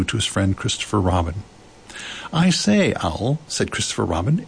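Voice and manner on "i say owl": high-pitched eager greeting; excited boy. A narrator's reading. Christopher Robin greets visiting Owl, excited. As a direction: hail a friend in high excitement.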